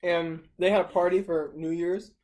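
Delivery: talking with a mouthful; words round a bite of food; mouth full. Real, not acted. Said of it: "shouldn't eat while you're talking".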